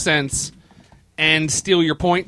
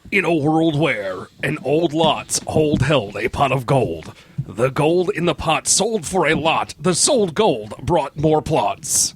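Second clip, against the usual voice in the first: movie trailer voice; 2 semitones lower than usual. Acted. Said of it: "Do it again".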